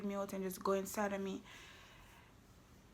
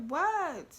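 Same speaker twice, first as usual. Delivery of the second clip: high, hammed-up protest; mock tearful; 8 semitones higher, 5 dB louder than usual. Girlfriend caught cheating asks her man, mock tearful. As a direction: play at crying innocence. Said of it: "And I'm crying".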